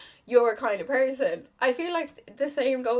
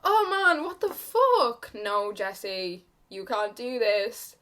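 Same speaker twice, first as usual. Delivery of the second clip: holding back tears; 4 dB louder, slower than usual. Real, not acted. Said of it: "Why am I so emotional?".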